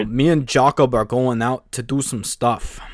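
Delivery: light Minnesota Fargo accent impression; lightly voiced Fargo northerner accent. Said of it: "He kinda sounds like a northerner from, like, Fargo".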